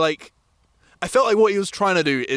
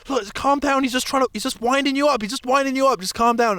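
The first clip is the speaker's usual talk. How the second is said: higher-pitched, urgent placating; imitated placating; 6 semitones higher than usual. Friend calming the angry men, imitated placating. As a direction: imitate a friend talking someone down. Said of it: "kept having to calm down".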